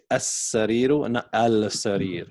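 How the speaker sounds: as-sariru with a doubled s, then al-sarir with a clear l; as-sariru merged, al-sarir with l; right and wrong form. Shown as a demonstration. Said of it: "So we say".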